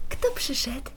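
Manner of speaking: secretive playful whisper. Real, not acted. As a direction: hush it like a secret. Playful question to toddler.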